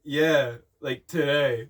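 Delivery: mock-downbeat friend's voice; subdued reply. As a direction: answer like it's just sinking in. Voicing Penguin's deflated answer to Hunter.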